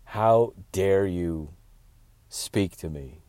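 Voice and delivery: slow, cold, drawn-out disdain; slow haughty snub. Retold or imitated. Comic quoting the cold performer, slow disdain. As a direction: let each word drip contempt. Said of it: "she just was like".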